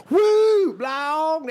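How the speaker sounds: very high, loud woo; imitated whooping. Women hearing the chanty chorus, whooping. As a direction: whoop like fans hearing their anthem. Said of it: "Like, they go".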